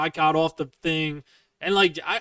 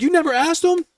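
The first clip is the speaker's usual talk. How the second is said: incredulous mom; 14 semitones higher, 4 dB louder than usual. Retold or imitated. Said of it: "she's like".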